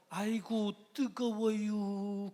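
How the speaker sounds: mock Chungcheong accent, very slow and stretched; slow Chungcheong drawl. Preacher joking how a Chungcheong person would not yell, in slow Chungcheong accent. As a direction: drag it out like a Chungcheong local. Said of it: "충청도 사람이라고 해서".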